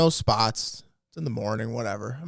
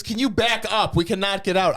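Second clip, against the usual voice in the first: mock old lady; 7 semitones higher than usual. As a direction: imitate the pushy old driver, higher and dragged out. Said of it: "She goes".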